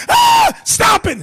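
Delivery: piercing high fake shriek; mock scream. Wife screaming so the neighbors hear, shrill and loud.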